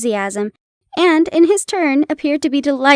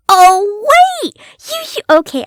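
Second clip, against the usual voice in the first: higher and louder, flustered through laughter; giggly aside; 8 semitones higher, 7 dB louder than usual. Real, not acted. Reader stopping her reading, giggly and flustered. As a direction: break character, laughing at yourself.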